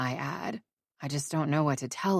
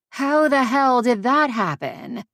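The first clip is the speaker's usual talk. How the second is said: shocked friend; 7 semitones higher, 5 dB louder than usual. Acted.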